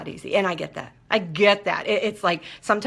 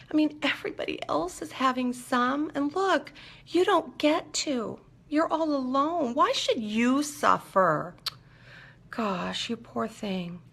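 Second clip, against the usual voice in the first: higher, softer, pitying wheedle; whiny addiction voice; 6 semitones higher, 4 dB quieter than usual. Retold or imitated. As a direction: coax yourself with fake sympathy, slowly. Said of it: "That little voice digs a little deeper and goes".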